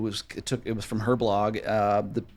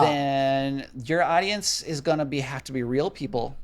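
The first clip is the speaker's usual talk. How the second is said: slow Minnesota accent; slower than usual. Shown as a demonstration. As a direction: keep the Minnesota vowels going. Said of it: "Shout out for that accent".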